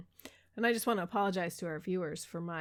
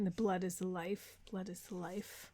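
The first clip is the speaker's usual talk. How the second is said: whispering; 2 semitones lower, 9 dB quieter than usual. Retold or imitated.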